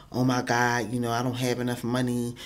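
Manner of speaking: normal talking voice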